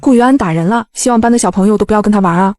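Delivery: mock crying complaint, lightly voiced; fake wailing. Woman sitting on floor pretending the boy hit her, mock wailing. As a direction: ham up a fake sob story. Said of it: "哭哭啼啼地演了起来".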